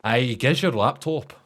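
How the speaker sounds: slow, lilting mock Scots; put-on stereotypical Scots; stereotypical Scottish accent. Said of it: "stereotypical Scottish accent".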